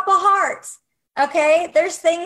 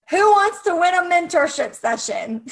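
excited hype; 5 semitones higher, 3 dB louder than usual. Real, not acted. Announcing the giveaway.

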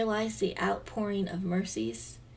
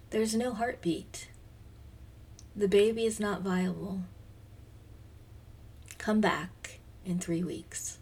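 soft, slowing to a whisper; hushed retelling; 5 dB quieter than usual. Retold or imitated. Mother recalling the sonographer's words at the ultrasound, hushed and slowing to a whisper. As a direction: let the news fall quietly, almost breathless.

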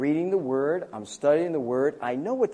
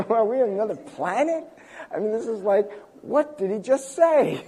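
baffled whisper to wife; 7 semitones higher, 4 dB louder than usual. Retold or imitated. Retelling bafflement at dissertation defense.

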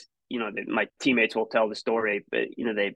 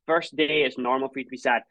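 brave reassuring mom; 3 semitones higher than usual. Retold or imitated. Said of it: "to put on a face and be like".

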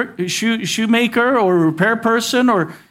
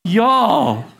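southern y'all. Shown as a demonstration. Pastor repeating it for the congregation, southern drawl. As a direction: drop it easy, Texan style. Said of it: "can you look around and say that?".

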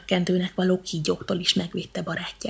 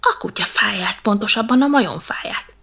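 whispered annoyed grumble; a peeved monkey muttering; grumbling whisper; 4 dB louder than usual. Acted. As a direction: curse under your breath. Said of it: "mérgeskedik".

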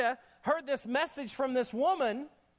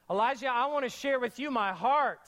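sweet fake concern; 3 semitones higher than usual. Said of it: "It's almost like she said".

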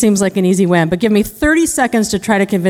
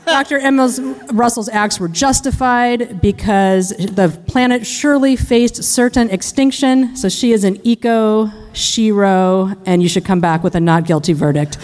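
defense lawyer impression. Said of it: "impression of a criminal defense lawyer".

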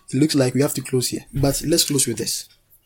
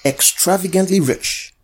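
raised, declaring lead for repetition; call and response; 4 semitones higher than usual. Real, not acted. Preacher has congregation repeat after him, raised declaration. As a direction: proclaim it for them to echo.

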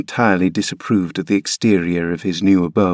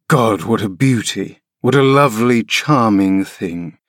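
scornful exclaim. Acted. Father mocks his frail son to Nelly, scornful exclaim. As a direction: sneer the praise as a jibe. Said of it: "he exclaimed".

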